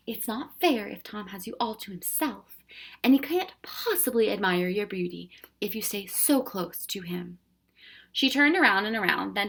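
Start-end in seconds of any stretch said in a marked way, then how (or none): 0.1-7.4 soothing. Acted. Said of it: "firm but soothing voice".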